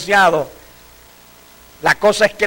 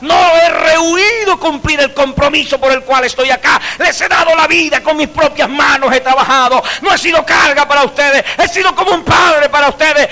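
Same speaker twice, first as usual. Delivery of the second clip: louder, higher preaching declaration; Pablo's proclamation; 5 semitones higher, 3 dB louder than usual. Acted. Paul defending his ministry to the elders, preaching loud. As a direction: proclaim it like the apostle at farewell. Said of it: "Oiga usted cómo dice Pablo".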